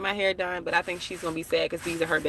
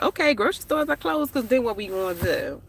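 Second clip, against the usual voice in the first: put-on DMV accent, higher at the start; fake DMV accent; 3 semitones higher than usual. Worrying aloud to viewers about food shortages, in fake DMV accent. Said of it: "That was my fake D M V accent".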